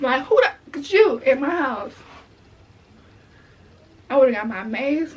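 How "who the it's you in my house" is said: furious confrontation. Pretend. Catching the intruder in her house, an outraged yell. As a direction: catch the intruder red-handed and blow up.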